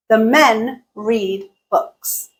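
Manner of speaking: quick THE, then slow, even beats on MEN, READ, BOOKS; stress-timed rhythm. Shown as a demonstration. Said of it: "Listen to the duration of each utterance".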